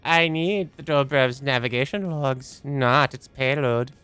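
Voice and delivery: a hint of an eerie computer, rising to urgent; lightly voiced solemn machine; creepy AI voice. Reads AI character's lines.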